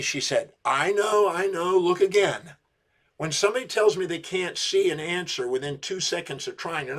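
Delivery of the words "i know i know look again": higher, louder urging to look again; insistent coaxing. Retold or imitated. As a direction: push her kindly but firmly. Coach pushing client to look again.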